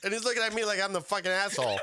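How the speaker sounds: high-pitched laughing incredulity; laughing while telling. Real, not acted. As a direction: barely keep the laughter out of the telling.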